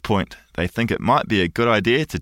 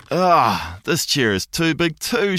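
put-on higher, whining little girl complaint; whiny Goldilocks; 7 semitones higher, slower than usual. A narrator's reading. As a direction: whine it like a spoiled girl. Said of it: "she whines".

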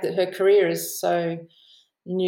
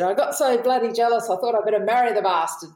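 cheeky; 4 semitones higher than usual. Retold or imitated. Retold quote from a cheeky interviewee.

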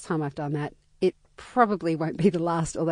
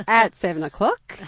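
buoyant excitement; 7 semitones higher, 5 dB louder than usual. Retold or imitated. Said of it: "I'm like".

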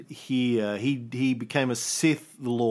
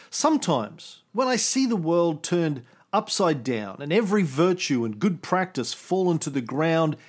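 dramatic poem reading; 2 semitones higher than usual. Acted. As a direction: declaim it like a prophet's grieving poem. Reads his translated poem aloud.

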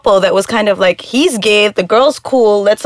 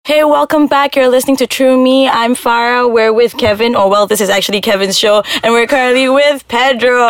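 radio host welcome; 2 semitones higher than usual. Real, not acted. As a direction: lively show reopening. Co-host reopens the show.

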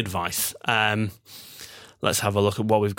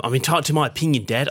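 put-on fast, higher sulky teen in an Australian accent; truculent Australian accent; 4 semitones higher, faster than usual. Son arguing back to his dad, lightly put-on Australian accent. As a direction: toss it off like a stroppy Aussie teenager. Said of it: "don't know why I did it in that voice".

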